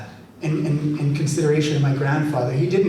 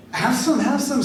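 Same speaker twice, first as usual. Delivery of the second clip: grandpa offering; 9 semitones higher than usual. Retold or imitated.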